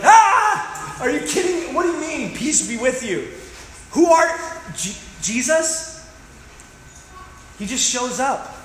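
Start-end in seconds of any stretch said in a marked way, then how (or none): 0.0-6.0 high startled yelp, then baffled; shocked disciples. Pretend. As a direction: play the stunned disciples, loud at first. Disciples shocked by Jesus appearing.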